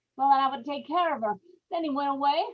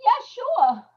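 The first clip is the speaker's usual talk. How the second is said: false cheer; 4 dB louder than usual. Acted. Ella lies to her husband.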